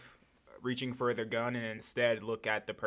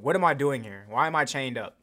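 louder, pushed question with a hard fall; demanding question; 6 dB louder than usual. Acted. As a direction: insist on an answer. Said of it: "demanding repeat".

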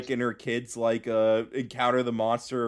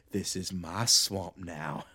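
Shrek voice; 9 semitones lower, 9 dB quieter, slower than usual. Retold or imitated. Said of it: "he just goes".

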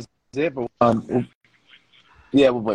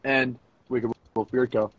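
raised, measured podcast intro voice; deliberate host introduction; show announcer; slower than usual. Real, not acted. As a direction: announce the show and sponsors, stretching the words.

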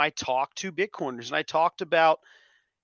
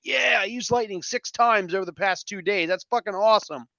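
higher-pitched cheer, lightly hammed up; mock celebration; 4 semitones higher than usual. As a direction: imitate people cheering a small win. Acted quote of celebrating conference-goers.

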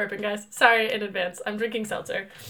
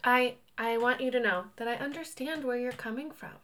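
softer earnest comforting tone; soft sincere voice; 6 dB quieter than usual. Pretend. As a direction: say it softly like a therapist. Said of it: "Not that voice".

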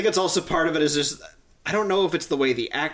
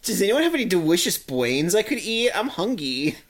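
zombie voice; 7 semitones higher than usual. Pretend. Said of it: "her going".

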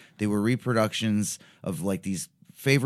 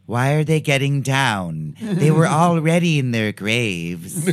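mocking disbelief; 4 semitones higher, 8 dB louder than usual. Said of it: "I don't think he understood that line".

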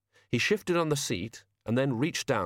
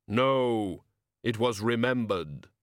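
grim reaper voice; slower than usual. Acted. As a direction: speak as Death, slow and final. Death speaks in story.

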